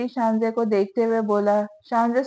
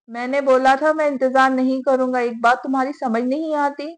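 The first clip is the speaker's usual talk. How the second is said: lashing out; 2 semitones higher than usual. Acted. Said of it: "उस पर बरस पड़ा".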